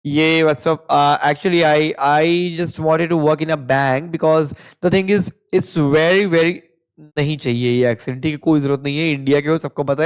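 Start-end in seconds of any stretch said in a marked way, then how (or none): 0.9-6.5 slow, mock posh foreign English accent; mock a fake-accent candidate; fake put-on Western accent. Shown as a demonstration. Teacher mocking a fake Western accent, slow and drawn out. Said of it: "फेक एक्सेंट".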